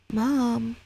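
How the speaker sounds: lightly voiced boy calling out; small voice calling his mom; child calling. Young son calling to his mother, lightly voiced boy.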